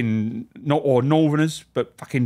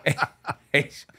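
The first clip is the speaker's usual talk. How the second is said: normal talking voice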